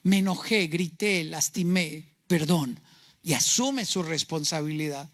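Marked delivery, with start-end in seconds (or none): 0.0-2.8 low, measured mock apology; acted apology. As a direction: own up to it in a lower voice, pausing. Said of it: "La madurez se expresa diciendo". (disculpa actuada, en voz baja de tono)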